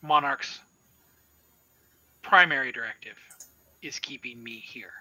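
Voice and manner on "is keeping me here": whispered, trailing secret; ominous whisper. Acted. Minotaur confiding it is trapped here, whispered. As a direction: let it drop to a hush.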